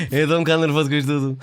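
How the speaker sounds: lightly drawled nervous reality star; a hint of a dragged-out, slurred voice; Zé Maria impression. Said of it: "era assim uma voz arrastada".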